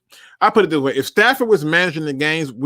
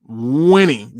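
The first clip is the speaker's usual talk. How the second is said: Winning repeated, louder; emphasis on winning; 3 dB louder than usual. Shown as a demonstration. Host answering a fan, emphatic repeated Winning. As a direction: hit Winning again, harder. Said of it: "See the emphasis on the word winning?".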